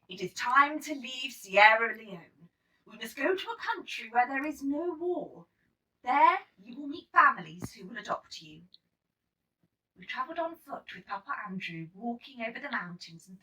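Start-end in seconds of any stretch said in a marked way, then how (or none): 0.1-8.7 director's announcement. Acted. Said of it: "told us all".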